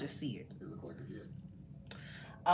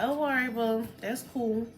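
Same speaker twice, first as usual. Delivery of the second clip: brushing it off; 4 semitones higher than usual. Retold or imitated. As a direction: imitate a friend shrugging off your news. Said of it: "they'll brush it off like".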